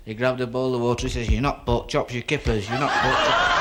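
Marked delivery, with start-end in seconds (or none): 1.3-3.6 louder, laughing punchline; husband caught with chops, laughing loudly; laughing through it. Acted. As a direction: crack up as you say it. Drunk husband blessing chops.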